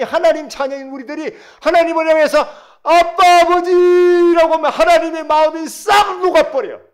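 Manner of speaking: high, shouted preaching; full-force preaching. Real, not acted. Preacher telling how God's heart melts, full-force preaching. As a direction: shout it out to the whole congregation.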